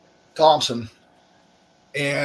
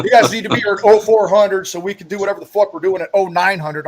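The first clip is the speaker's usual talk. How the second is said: higher, louder bossy officer voice; mock officer order; 6 semitones higher, 4 dB louder than usual. Vet mocking his command's orders, bossy mock voice. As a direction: ham up the officer barking the schedule.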